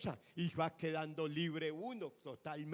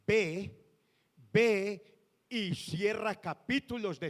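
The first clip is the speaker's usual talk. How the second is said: louder, slow, commanding divine order; voice of the Lord; 5 dB louder than usual. Retold or imitated. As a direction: deliver God's command with weight. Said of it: "¿Sabe qué me dijo el Señor?". (voz del Señor, fuerte y lenta, ordenando)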